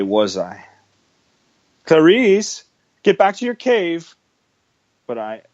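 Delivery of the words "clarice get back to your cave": stern order. Acted. Father orders daughter home.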